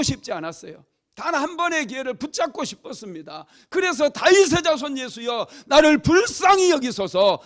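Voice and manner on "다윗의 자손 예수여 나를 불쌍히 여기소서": high, loud plea for mercy; desperate beggar's shout, preacher acting it; crying out. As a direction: shout to be heard over a crowd. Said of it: "소리 지르기 시작했다는 거예요".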